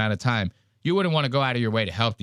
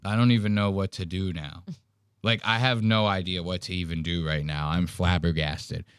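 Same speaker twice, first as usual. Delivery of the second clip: low, soft dumbfounded mumble; lost for words, lower and quieter; stunned Ben; 6 semitones lower, 3 dB quieter than usual. Retold or imitated. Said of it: "Ben probably has to be sitting there like".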